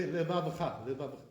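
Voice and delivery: levavecha run together as le-VAV-cha; swallowed middle syllable. Shown as a demonstration. Teacher mimicking Ashkenazim, levavecha with swallowed sheva. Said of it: "That's not really correct".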